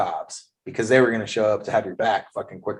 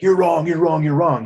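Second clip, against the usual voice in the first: higher, louder mock nagging, hammering it over and over; a preachy scold who won't let it go; nagging repeated correction; 6 semitones higher, 5 dB louder than usual. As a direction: imitate someone lecturing you that you're wrong. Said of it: "he never fucking was like".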